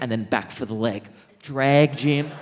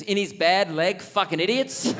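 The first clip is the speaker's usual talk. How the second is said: higher-pitched retold outrage; mock indignation; 5 semitones higher than usual. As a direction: burst out indignantly, acting the mate. Jungle's retold punchline after grave pause.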